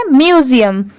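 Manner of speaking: "म्यूजियम" said carefully as myu-zi-yam; model pronunciation. Shown as a demonstration. Teacher stating the word's pronunciation, careful "म्यूजियम". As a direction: give a clear model of "म्यूजियम". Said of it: "इसका pronunciation है".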